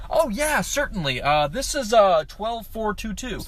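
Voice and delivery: lightly voiced courteous helper; nice man. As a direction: play a kindly, helpful stranger. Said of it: "He was so nice".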